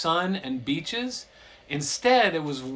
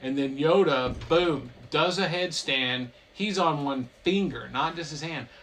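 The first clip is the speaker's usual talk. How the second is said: ordinary talk, nothing marked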